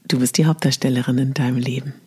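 quick, breathy whisper. Acted. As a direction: whisper it like a secret. Whispered closing affirmation.

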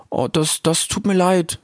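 put-on high, halting young voice; timid Rix. (schüchterner Rix, hoch und stockend)

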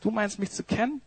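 soft, incredulous questioning, barely above a hush; the master quietly turning the servant's words back; ironic master. Acted. Quiet, dry disbelief. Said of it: "Jesus ... sagt".

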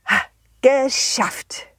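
breathy whisper of relief. Acted. Quiet relieved win. (geflüstert, erleichtert)

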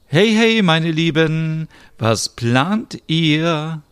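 high, loud, slow call from the window; calling down from a window to friends, loud and stretched. Acted. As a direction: hail them cheerfully from upstairs. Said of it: "Smilla ruft".

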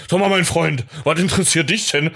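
a hint of a sturdy indignant man; gruff voice. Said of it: "mit der kernigen Stimme". (leicht kernige, empörte Stimme)

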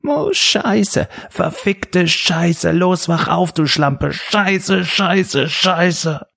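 panicked squeaky voice breaking high; voice cracking. A narrator's reading. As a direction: swear in a cracking pubescent squeak. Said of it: "überschlug sich seine Stimme wie bei einem Penela im Stimmbruch". (überschlagende Stimme im Stimmbruch)

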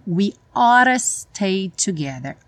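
"oughta" with a flapped t, like ora. Shown as a demonstration. Teacher models the lyric: "oughta" said like ora. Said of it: "ele pronuncia ora".

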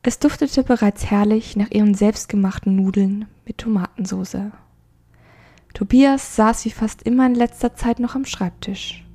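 measured audiobook narration; story narration. A narrator's reading. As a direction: read the story with gentle expression. Reads a story aloud.

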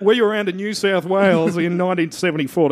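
put-on a light, half-hearted Australian accent as the old broadcaster; lightly voiced Australian old-timer, boasting; John Burgess Australian accent. Host mocks the blazer-wearing broadcaster in a light Australian accent. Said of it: "I can't do a John Burgess impression".

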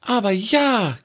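high snake voice with a grin; the snake amused at the question; grinning snake. A narrator's reading. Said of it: "grinste Wasi".

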